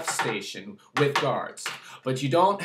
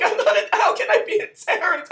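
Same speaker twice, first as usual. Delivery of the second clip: much higher, fast indignant protest; indignant disbelief; 13 semitones higher, 5 dB louder, faster than usual. Retold or imitated. Speaker protesting the terrorist accusation, indignant. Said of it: "I'm like".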